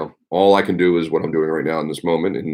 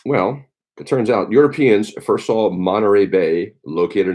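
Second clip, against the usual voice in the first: reading aloud; 2 semitones higher than usual. Acted. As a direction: read the trivia like a showy presenter. Reads cheese history from book.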